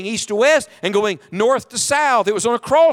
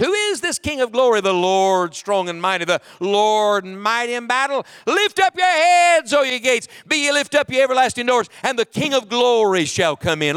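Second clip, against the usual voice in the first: psalm proclamation; 3 semitones higher than usual. Acted. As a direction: proclaim the King's entry.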